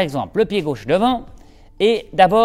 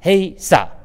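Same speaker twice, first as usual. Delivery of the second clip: louder shouted hey, ça; kiai shout; 4 dB louder than usual. Shown as a demonstration. Instructor demonstrating the rowing cry, loud. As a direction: cry it out on the stroke. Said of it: "en criant ça".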